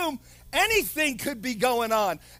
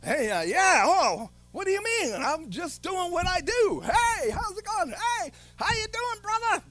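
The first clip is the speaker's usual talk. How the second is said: high, casual friendly hello; a believer greeting someone, breezy and friendly; breezy mock greeting; 5 semitones higher than usual. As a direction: greet them like nothing's wrong. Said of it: "you're like".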